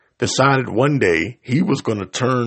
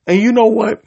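sudden shout; 10 semitones higher, 6 dB louder than usual. Real, not acted. Outburst mid rant.

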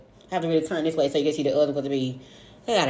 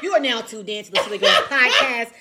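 news anchor voice; 6 semitones higher than usual. Shown as a demonstration. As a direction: announce it like a news anchor, giggling. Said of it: "our news anchor voice".

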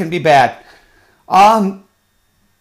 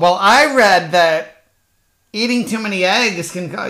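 smug know-it-all. Retold or imitated. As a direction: imitate someone bluffing they read it. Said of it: "and they pull out".

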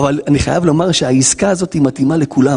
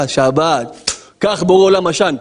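defiant sinner; slower than usual. Acted. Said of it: "פשע".

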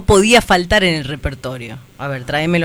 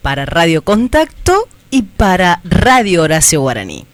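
shouting on bad phone line; 4 dB louder, slower than usual. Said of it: "espera que te presente".

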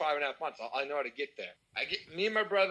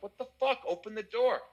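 higher-pitched retold irritation; pissed off; 3 semitones higher than usual. Locked-out guest demanding to be let in, pissed off. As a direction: act out an exasperated demand, pitched up. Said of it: "I'm pissed".

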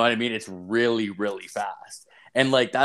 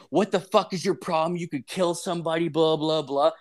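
higher-pitched mock scolding; mouthing off; 5 semitones higher than usual. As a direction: mimic an indignant telling-off, tailing into blahs. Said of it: "start mouthing me off".

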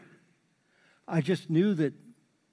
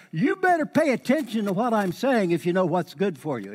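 raised, louder stern parent warning; parent scolding; 5 semitones higher, 4 dB louder than usual. Retold or imitated. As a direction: warn the kids like a strict parent. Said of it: "It's kinda like you parents".

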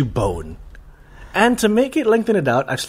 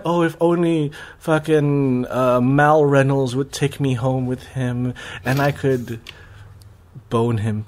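swooning fan; 3 semitones lower, slower than usual. Retold or imitated. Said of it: "or, you know, like".

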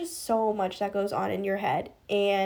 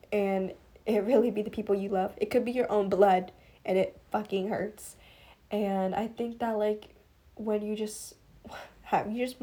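soft, fading, choked-up voice; tearful, much softer confession to listeners; holding back tears; 4 dB quieter than usual. Real, not acted. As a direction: let the hurt pull the voice down. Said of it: "I'm, like, tearing up".

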